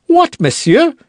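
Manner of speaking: high, sharp indignant cry. Acted. D'Artagnan to Aramis, crying out indignant. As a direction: shoot up in offended surprise. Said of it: "cried D'Artagnan".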